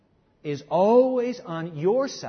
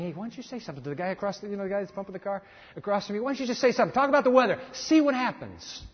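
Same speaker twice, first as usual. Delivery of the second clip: inner voice urging; faster than usual. Pretend. Inner voice nudging.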